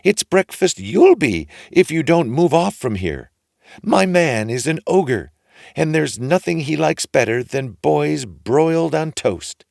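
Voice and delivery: high, loud stern woman's voice; ogre's wife warning. A narrator's reading. Ogre's wife shooing Jack away, high and loud. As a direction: warn the boy off sharply, pitched high.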